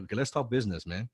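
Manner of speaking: calm, focused, still friendly; businesslike. Shown as a demonstration. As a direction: shift gears into focused business talk. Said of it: "when I switch to talk business".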